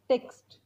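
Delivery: text with both t sounds clear; crisp full text. Shown as a demonstration. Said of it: "टेक्स्टचा उच्चार टेक्स्टच करायचा". (स्पष्ट text)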